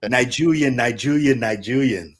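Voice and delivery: Nigerian said as "nai-JOO-yen", over and over; repeated mispronunciation. Retold or imitated. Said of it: "for, like, a whole year straight, I was like".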